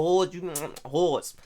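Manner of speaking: "hoods" said like "hawds"; Larimer pronunciation. Shown as a demonstration. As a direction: open the vowel of "hoods" to an "aw". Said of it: "That's how they say hoods".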